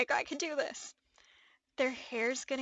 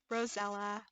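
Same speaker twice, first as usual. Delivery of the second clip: whispered; 3 semitones lower, 5 dB quieter than usual. Real, not acted. Naming the doll quietly.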